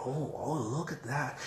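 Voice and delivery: soft, slow mock fascination; hushed, drawn-out show of interest; feigned interest. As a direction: quietly pretend to be absorbed in the art. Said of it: "acting as if I was interested".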